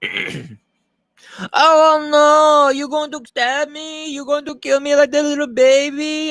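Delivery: very high, loud mock pleading voice; Hispanic maid voice. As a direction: wail like a hammed-up frightened maid. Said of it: "I'll do it again if you want".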